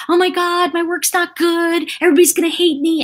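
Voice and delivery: high, panicky self-doubt; anxious inner voice. Retold or imitated. Voicing her own anxious thoughts after criticism, high and panicky. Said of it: "set me into a state of".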